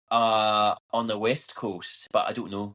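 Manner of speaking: lightly put-on Scottish accent. Shown as a demonstration. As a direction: slip into a Scottish lilt. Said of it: "I'll stop that now".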